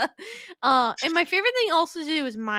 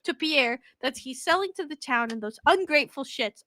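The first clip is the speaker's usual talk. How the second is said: mock angry retort. To townsfolk who insulted her mayonnaise, a mock angry retort. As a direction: tell off the ungrateful townsfolk. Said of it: "I'm like".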